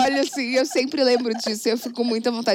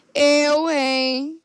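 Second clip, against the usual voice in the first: catchphrase; 4 semitones higher than usual. Retold or imitated. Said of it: "Eu gosto muito de falar".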